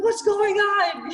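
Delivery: high, slow, dazed question; shocked confusion. Retold or imitated. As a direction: sound like you just came to. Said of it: "I'm like".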